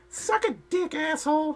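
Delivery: very high, squeaky cartoon voice. Imitating twelve-year-olds, in a Mickey Mouse impression. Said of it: "That's also my Mickey Mouse impression".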